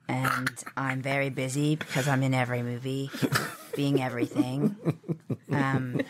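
put-on light Australian accent, slow; a hint of Australian accent. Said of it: "That's my best Australian accent".

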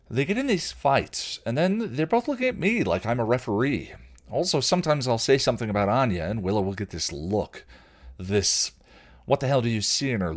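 a hint of nervous Xander venting; Xander's voice. Xander confides in Spike.

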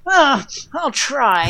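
high, slow, strained Yoda grunt; slow high grunting Yoda impression. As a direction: grunt it like a tiny old master. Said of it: "Yoda grunting".

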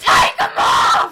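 urgent unvoiced yell; whispered shout. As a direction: hiss it like a warning. Warning the listeners.

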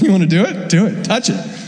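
lightly voiced teasing challenge; a mild, offhand dare to the doubter; casual dare. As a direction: toss it off like a playful dare. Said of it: "Or if he's like".

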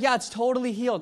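high, loud imitation of her thrill; retold gushing, pitched well up; excited confirmation. Woman confirming her healing to the preacher, excited.

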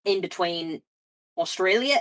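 loose blend of Cockney and Australian; Australian-Cockney accent. Pretend. Host warning about the accent, Cockney-Australian. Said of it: "Australia and Cockney".

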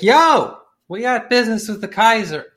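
put-on high, loud drunk bro hollering at the gate; drunk bro call. Drunk colonel shouting at the castle gate, high and loud. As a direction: yell it up like a cocky drunk.

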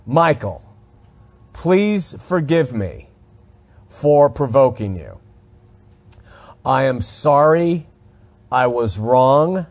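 slow, softened, earnest apology; mean every word, slowly; sincere apology. Shown as a demonstration. Radio host apologizing to Michael on air, slow and sincere. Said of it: "I wanna illustrate".

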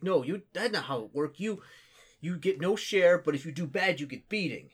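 loud, broken-English orc scolding; gruff orc. Acted. Orc scolding the paladin about beatings, loud and gruff. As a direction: bark it like a simple brute explaining rules. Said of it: "he's like".

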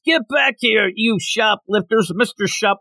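high-pitched mock yell at little volume. Would-be hero chasing shoplifters out, mildly mock-yelled. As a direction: imitate a hero calling after thieves, half-hearted. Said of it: "he starts yelling".

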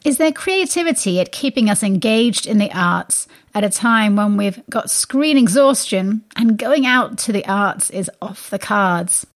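scripted show intro with punched key words; lively, polished arts-radio host delivery; radio presenter read. Acted. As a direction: present the show to listeners, emphatic and deliberate.

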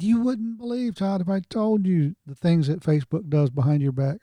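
lifted, hushed voice for the lawyer's words. Retold or imitated. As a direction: say it high and quiet, like a confidence. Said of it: "he said".

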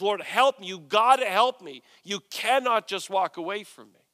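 emphatic, forceful plea; insistent demand. Acted. Woman blocking Jesus's way, insistent demand. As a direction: lay down the law while begging. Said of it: "she lays down the law".

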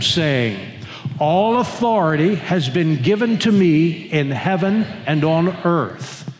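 slow, measured congregational reading; reading scripture aloud. Real, not acted. Preacher leading the congregation in reading scripture, slow and measured. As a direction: lead a group reading in deliberate, drawn-out phrases. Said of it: "Let's read it out loud together".

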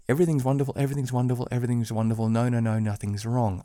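naive sing-song optimism, lightly mocked; mock cheerful. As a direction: parody a relentlessly cheerful optimist. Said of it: "rose-colored glasses".

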